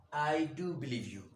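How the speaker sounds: emphatic DO, stated firmly; stress on do. Shown as a demonstration. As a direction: put the emphasis on "do". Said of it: "emphatic manner of speaking".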